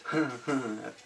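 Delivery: quiet, breath-like little laugh; soft chuckle. Real, not acted. Unwrapping a gifted shirt, soft chuckle. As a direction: chuckle under your breath.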